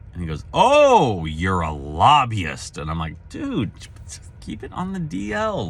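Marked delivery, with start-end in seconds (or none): 0.5-2.8 lightly imitated "aha" of discovery; mock surprised realization. Retold surprised reaction. 3.3-5.7 higher and softer, mock secretive; lightly played conspiratorial hush; hushed plea. Retold hushing reply.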